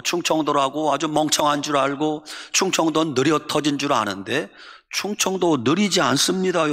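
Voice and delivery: usual speaking voice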